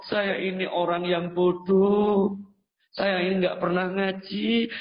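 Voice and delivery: slow, pleading, near tears; tearful plea. Acted. Weeping pilgrim begs the Prophet's forgiveness, slow tearful plea. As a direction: beg forgiveness through tears.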